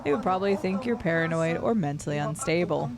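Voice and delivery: lightly voiced ominous stranger warning; secretive bounty hunter. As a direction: read it as a hushed threat from the shadows. Reads NPC dialogue aloud.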